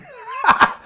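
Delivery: high, loud burst of laughter; real laughter. Real, not acted. Speaker muddling breathe and breath, bursting out laughing. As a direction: crack up at your own confusion. Cracks up at own word confusion.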